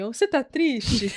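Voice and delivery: slow, soft little question; clinging child. Retold or imitated. Imitating her child clinging to angry mom, soft and slow. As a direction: imitate a concerned child, softly and slowly. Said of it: "Ele tá agarrado em mim".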